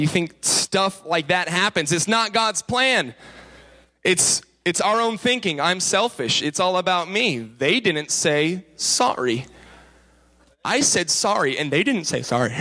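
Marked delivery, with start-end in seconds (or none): 5.6-12.5 a hint of a sulky child, dragged out; pouty voice. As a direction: sulk the words lightly. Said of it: "That's my pouty voice".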